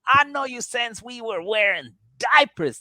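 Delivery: high hammed-up mournful plea; high mock grief over a brother jailed; mock lament. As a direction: overact the grief for your brother.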